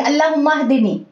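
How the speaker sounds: अल्लाहुम्मा हदिनी said quickly with a short दी, not stretched; हदिनी with a clipped दी; wrong way, rushed. Shown as a demonstration. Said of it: "यहाँ हम ऐसे नहीं पढ़ेंगे".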